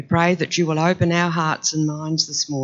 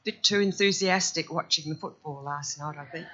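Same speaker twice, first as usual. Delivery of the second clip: croaky voice; 2 semitones higher, 6 dB quieter, faster than usual. Real, not acted. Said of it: "Apologies for a croaky voice".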